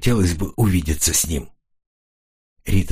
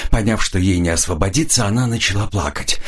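usual speaking voice

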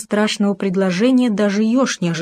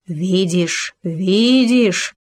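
echo; much slower than usual. A narrator's reading. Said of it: "как эхо откликнулся за порогом заяц".

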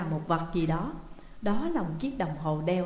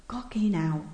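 ordinary delivery, nothing marked

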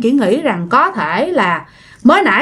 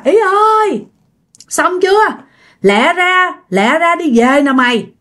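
higher, hurrying call to a friend; 5 semitones higher than usual. Acted. Friend outside the toilet hurrying her to go home, calling out. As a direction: call her out, urging her along. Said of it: "kêu rằng á là".

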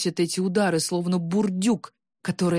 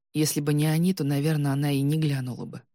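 ordinary delivery, nothing marked

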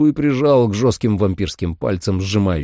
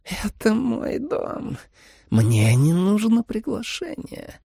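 menacing vampire mother; 13 semitones higher, slower than usual. A narrator's reading. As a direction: purr the threat slowly.

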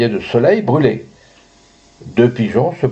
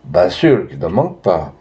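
absent-minded repeating; musing repetition; 5 semitones lower than usual. A narrator's reading. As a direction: repeat it to herself while searching her memory. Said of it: "en répétant toujours".

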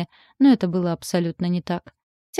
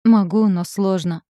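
muffled voice; 5 dB louder than usual. Acted. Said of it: "раздался глухой голос из-под шлема".

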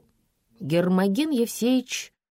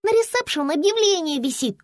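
put-on high, louder child's urgent voice; anxious little girl; 11 semitones higher, 3 dB louder than usual. Girl begging Lampa to hurry with a high urgent child's voice. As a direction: sound like a scared little girl left alone.

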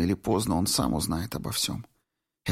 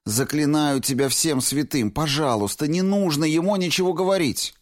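higher, imploring plea; begging; 10 semitones higher, 4 dB louder than usual. A narrator's reading. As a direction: Valentina imploring Clifford, begging. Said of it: "Тогда она взмолилась".

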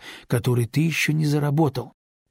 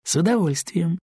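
sweet polite reply; 5 semitones higher than usual. Acted. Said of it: "мило улыбнувшись".

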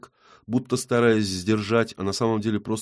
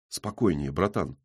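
calming; 3 semitones lower, 3 dB quieter than usual. Acted. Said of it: "успокаивает меня Сява".

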